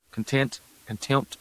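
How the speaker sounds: "content, contempt" said side by side to fix the slip; self-correction. Real, not acted. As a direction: contrast "content" with the crisp "contempt". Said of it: "Keep saying content".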